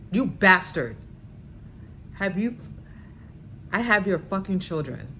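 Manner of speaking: loud furious yell; screaming. Retold or imitated. Woman screaming at her ex on the phone, loudly. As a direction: scream it at him in rage. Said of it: "I screamed at him".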